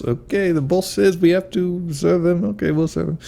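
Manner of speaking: high, sneering snooty waiter; mustache twirling villain. Retold or imitated. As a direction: act the scornful barista. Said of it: "as he twirls his mustache".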